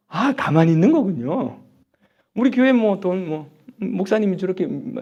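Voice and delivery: usual speaking voice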